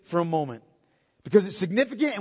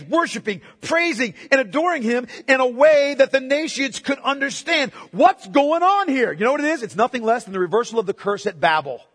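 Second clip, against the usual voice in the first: raised, emphatic pulpit voice; impassioned preaching; 5 semitones higher, 5 dB louder than usual. Real, not acted. Preacher declaring God's mighty works to the congregation, impassioned. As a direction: preach it out with mounting force.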